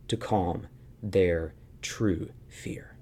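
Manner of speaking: slow, hushed whisper. Real, not acted. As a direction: lean in and whisper it slowly. Sermon climax whispered.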